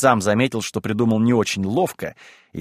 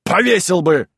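louder, higher, swearing by God; emphatic insistence; 5 semitones higher, 4 dB louder, slower than usual. Acted. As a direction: hammer home the threat as a mock vow. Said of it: "повторил Ноздрёв".

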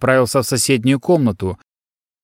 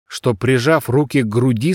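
ordinary delivery

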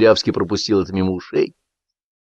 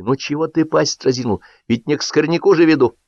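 exasperated scolding; 5 semitones higher than usual. Acted. Man scolds stubborn dog.

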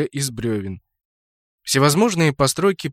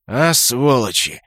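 guffawing; 4 dB louder, slower than usual. Acted. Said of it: "заржал Кракен".

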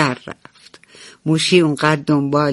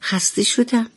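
whining little mouse; 3 semitones higher than usual. Acted. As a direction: whine like a tired little kid. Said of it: "شروع کرد به نق زدن".

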